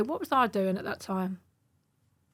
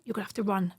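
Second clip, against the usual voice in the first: urgent whisper; brother's urgent whispered escape plan; 2 semitones lower, 6 dB quieter, faster than usual. Retold or imitated. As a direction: whisper so the police won't hear. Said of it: "He was like".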